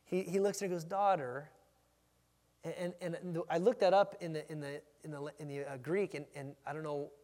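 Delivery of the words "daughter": tender address. Acted. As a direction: address her gently, with affection. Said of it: "such a tender way".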